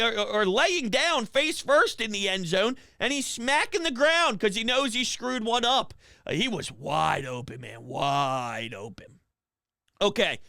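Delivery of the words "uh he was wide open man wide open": low lament. Acted. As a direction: sink low, wide open man. Lamenting dropped pass.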